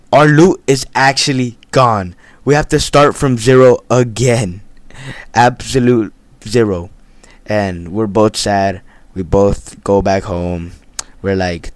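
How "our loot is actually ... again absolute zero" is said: loud lament. Real, not acted. Lamenting lost loot.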